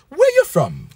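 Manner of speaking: mock chat-up lines. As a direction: play both sides of a club chat-up. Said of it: "acted club chat".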